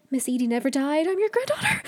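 climbing into a high squeal; mock tearful reveal. Jocelyn telling David Clare who she is, mock tearful squeal. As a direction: build to a hammed-up squeaky cry.

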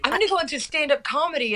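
retold enthusiasm. Quoting own past idea.

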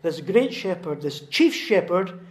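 loud, insistent list building in force; rousing sermon climax; emphatic preaching. Real, not acted. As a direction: drive each phrase home from the pulpit.

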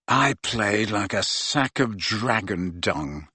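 slow, low, hollow and defeated. Acted. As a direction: speak slowly in a hollow, empty voice. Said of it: "said Ron in a hollow voice".

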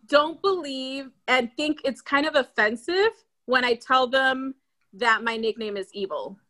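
ordinary talk, nothing marked

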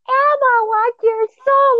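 very high, slow demonic squeal; satanic voice. Retold or imitated. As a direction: squeal it like a possessed toy. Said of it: "in a very, like, satanic voice".

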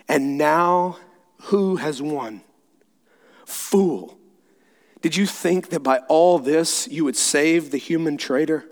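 hushed, halting taunt; quivering voice. Acted. Witch stooping over Aslan before the blow, quivering voice. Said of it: "said in a quivering voice".

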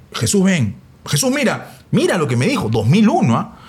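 coach giving instructions. Retold or imitated. Coach voiced in retold story.

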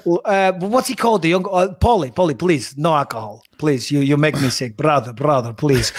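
put-on lightly done Dagestani Khabib accent; a hint of Khabib quoting Rocky; mild Dagestani accent as Khabib. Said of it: "Rocky quotes as Khabib".

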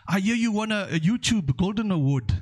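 teasing congratulation, pitched high; Nigerian professor voice. Retold or imitated. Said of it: "He says".

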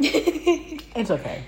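munching while speaking; chewing while talking. Real, not acted. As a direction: mouth full, chewing. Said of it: "Sorry for the munching".

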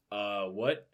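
lightly voiced dim-witted starfish; a hint of slow-witted confusion; Patrick. Starfish puzzled at the fight, lightly voiced dimness. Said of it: "keep talking like Patrick".

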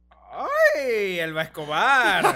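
laughing tease. Retold or imitated.

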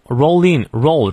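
"roll" strong, "in" weaker; stress on ROLL. Shown as a demonstration. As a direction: lean on "roll" in "roll in". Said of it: "roll重读". (“roll”重读)

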